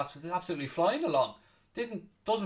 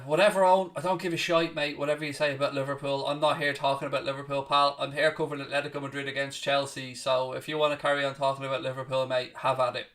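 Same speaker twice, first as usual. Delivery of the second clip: snippy retort; 3 semitones lower than usual. Real, not acted. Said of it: "Craig, you're very snippy".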